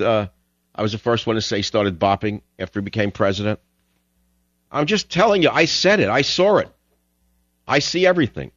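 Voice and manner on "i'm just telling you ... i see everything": insistent boast. Real, not acted. Host insisting he saw it first.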